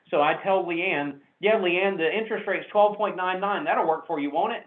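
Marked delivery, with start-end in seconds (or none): 1.4-4.7 enthusiastic. Shown as a demonstration. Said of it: "with as much enthusiasm as I possibly can muster".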